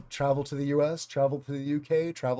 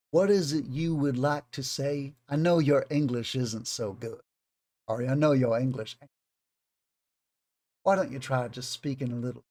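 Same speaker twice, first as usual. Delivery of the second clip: condescending Southern granny voice; passive-aggressive old Southern lady. Acted. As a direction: play a Southern lady being politely insulting. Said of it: "a certain level of passive aggressiveness".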